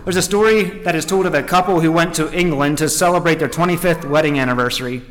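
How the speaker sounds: deliberate, measured storytelling; emphatic read-aloud phrasing; story narration. A narrator's reading. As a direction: read the tale out to a congregation.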